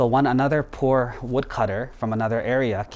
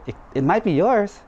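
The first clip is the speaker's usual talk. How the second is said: high, lilting coaxing; coaxing suggestion; 8 semitones higher than usual. Acted. Spirit tempts the woodcutter with the silver axe, coaxing.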